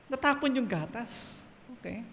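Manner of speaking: high-pitched parental telling-off; mock scolding. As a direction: act out scolding a child over spilled milk. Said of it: "Pinapagalitan natin yung ano, yung bata".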